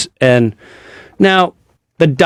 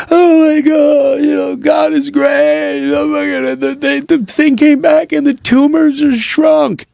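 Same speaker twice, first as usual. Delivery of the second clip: crying with joy. Retold or imitated. Husband imitating his wife's tearful good news, high and crying. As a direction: imitate her sobbing relief, very high. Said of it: "she was crying".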